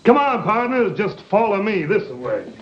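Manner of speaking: lightly voiced cowboy leader; put-on cowboy. Fake Tex leading the kids, mild cowboy act.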